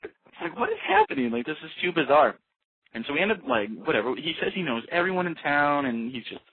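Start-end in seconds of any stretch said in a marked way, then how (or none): 0.6-2.4 very high, loud mock bewilderment; baffled disbelief. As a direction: throw up your hands at the weirdness. Disbelief at the bizarre moment.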